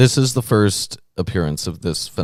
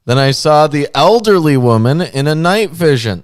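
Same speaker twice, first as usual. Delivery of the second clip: put-on young lady voice; 3 semitones higher, 5 dB louder than usual. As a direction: read it in a mildly hammed-up young lady voice. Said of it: "I have to do a young lady voice".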